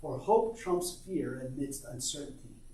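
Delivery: measured, earnest poem reading. Acted. Reads son's poem aloud.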